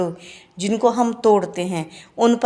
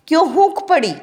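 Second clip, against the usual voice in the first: higher, louder pained question; anguished cry; 6 semitones higher, 3 dB louder than usual. Shown as a demonstration.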